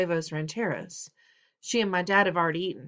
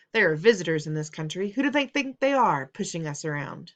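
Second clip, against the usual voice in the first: indignant father; 4 dB louder than usual. Acted. Father's angry rant at dinner.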